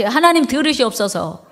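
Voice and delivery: many voices echo the prayer together; congregation repeats. Real, not acted. Congregation echoes the pastor's prayer line in unison. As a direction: repeat the plea as a group. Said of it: "다 같이".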